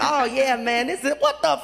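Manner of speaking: easy start, then pitch leaps on the last words; acted sudden outraged realisation; pleased turning shocked. Man flips the greeting card over, pleasure turning to shock. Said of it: "his voice changed".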